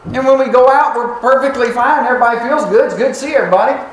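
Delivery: lightly acted insistence that all is well; surprised self-defense. Church members insisting everybody feels good, high mock protest. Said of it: "they would have been surprised".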